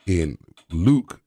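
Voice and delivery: slow, deep southern preacher voice. Pretend. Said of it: "your voice got deeper".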